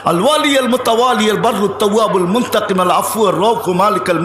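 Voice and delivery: running chant of sacred names; rapid recitation. Real, not acted. Preacher reciting Allah's ninety-nine names by heart, rapid recitation. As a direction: recite the names in one rolling, rhythmic stream.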